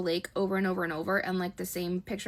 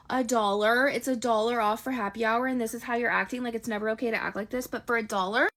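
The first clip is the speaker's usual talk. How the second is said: louder, incredulous "a dollar?"; exasperated, much louder retort; exasperated outburst; 5 dB louder than usual. Retold or imitated. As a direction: let the disbelief boil over, loud and sharp. Her exasperated retort to the date.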